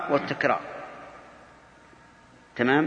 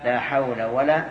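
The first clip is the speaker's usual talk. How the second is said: slow demonstration; 2 semitones lower, slower than usual. Shown as a demonstration. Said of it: "بدون تنوين".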